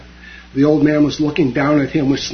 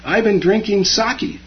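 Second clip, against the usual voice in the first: mild bellow; 6 semitones higher than usual. A narrator's reading. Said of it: "the laborer bellowed back".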